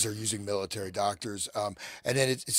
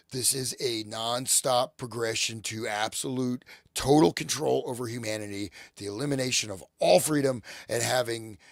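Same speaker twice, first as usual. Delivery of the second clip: sore throat. Real, not acted. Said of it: "I got a sore throat".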